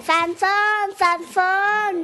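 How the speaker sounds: mock shouting of a name, twice over; imitated name-calling. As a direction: call the name twice, stretching it. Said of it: "Que le gritan".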